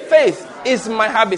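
"habit" set out slowly and deliberately; emphasis on habit. Shown as a demonstration. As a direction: drill it slowly, leaning on "habit". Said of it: "That habit is the emphasis there".

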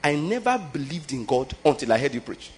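put-on soft, humble plea from the older man; a hushed, reverent "Sir"; quiet respectful quote. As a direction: say it softly, like the man kneeling beside him. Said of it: "and said".

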